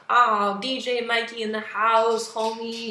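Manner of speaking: lightly imitated hip-hop hype man, slow; slow, put-on hip-hop bro; hip-hop homie. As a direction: draw it out like a mock DJ. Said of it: "a little too hip-hop-ish".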